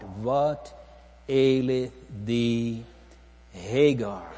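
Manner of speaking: slow, drawn-out, measured question; inviting question. Acted. The Lord invites Hagar to tell everything, slowly and invitingly. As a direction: stretch each word as a solemn invitation. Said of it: "He invites her".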